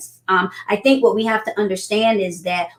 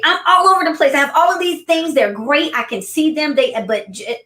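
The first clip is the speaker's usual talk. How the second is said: higher, hurried voice of an overwhelmed client; imitating frazzled client; 6 semitones higher than usual. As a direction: play the scattered executive, pitched up. Clients venting, quoted by speaker.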